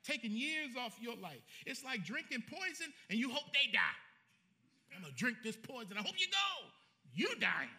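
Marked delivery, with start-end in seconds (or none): 4.9-7.7 mock bitter grudge-holder. Mocking a bitter person.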